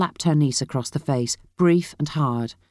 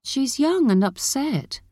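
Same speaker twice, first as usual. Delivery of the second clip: higher, slower motherly plea; defending; 9 semitones higher, slower than usual. A narrator's reading. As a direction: gently make excuses for her, pitched up. Mother defends niece to daughter.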